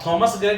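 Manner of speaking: थॉमस ग्रे with an aspirated "th"; wrong pronunciation. Shown as a demonstration. Teacher showing the mistaken थॉमस ग्रे with a "th". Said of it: "ऐसे थॉमस नहीं होता".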